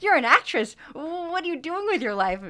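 a mock-shocked skeptic; incredulous disbelief. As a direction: act out their stunned disbelief. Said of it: "how many people said".

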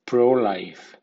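PRO-life, strong stress on pro; strong stress on prefix. Shown as a demonstration. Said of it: "con acento fuerte como pro-life".

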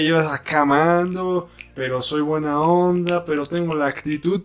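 sassy Cuban diva, only half put on; imitating Niurka. Mocking Cubans in Niurka's style, lightly sassy. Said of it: "Como de estilo Niurka".

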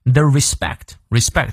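respect with the stress on SPECT; light re, strong SPECT in respect; re-SPECT, demonstrated for learners; stress on second syllable. Shown as a demonstration. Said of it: "respect重音在第二个音节".

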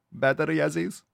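movie villain impression. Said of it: "Remember from True Lies?".

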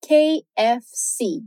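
K F C spelled with English letter names; K, F, C said slowly and separately; English KFC, letter by letter. Shown as a demonstration. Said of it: "No inglês, fica".

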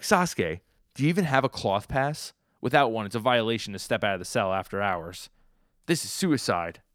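mildly hammed-up alarm, pressing the point; alarmed protest. Cellmate warning Sasuke about leaving without a pass, alarmed protest.

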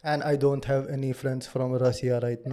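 put-on Russian accent. Shown as a demonstration. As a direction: demonstrate an imitated Russian accent. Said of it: "that is Russian accent".

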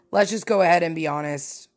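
normal talking voice

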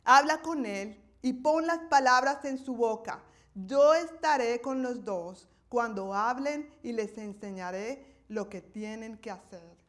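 God giving orders to Moses; the Lord instructing. Acted. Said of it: "Y dice versículo quince".

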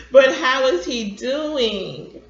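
slow, loud, drawn-out question; pressing. A narrator's reading. Grandfather pushing grandson past his evasive answer, pressing.

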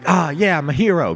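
squeaky, very high and chuffed; high proud voice. Acted. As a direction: puff up like a proud little hero. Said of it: "is like".

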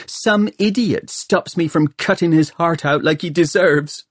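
angry rant. A narrator's reading. Hester blames Tom for stopping her revenge, angry. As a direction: rant at him with bitter exasperation.

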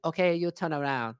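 lightly put-on Chinese accent; imitating Chinese-accented old lady. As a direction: order it in a mock Chinese accent, r dropped. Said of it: "she's like".

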